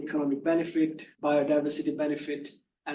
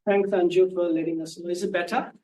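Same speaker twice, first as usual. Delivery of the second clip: louder, checking that it carries; speaking up; 3 semitones higher, 5 dB louder than usual. Real, not acted. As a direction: project so the listener can hear you. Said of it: "If you can speak up".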